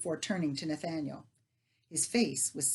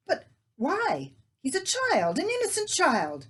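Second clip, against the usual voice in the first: high, loud, pleading outcry; distressed outcry; 12 semitones higher, 7 dB louder than usual. Acted. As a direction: cry out for the innocent child. Leah outraged about child.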